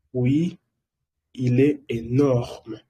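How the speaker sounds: il est énorme spoken slowly; slow it down for learners; slow model. Shown as a demonstration. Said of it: "slow model sentence".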